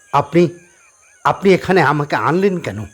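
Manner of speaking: high, stammering fearful question; frightened. A narrator's reading. Scared Rahul demands why he was brought. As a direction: ask in panic, voice up high. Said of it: "Rahul ভয় পায়".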